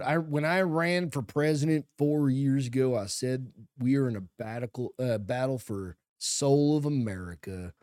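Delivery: put-on lightly drawn-out Southern accent, a touch slow; hint of a Southern accent. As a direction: read the Biden quote in a mild Southern accent. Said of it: "I don't know why I'm doing a Southern voice".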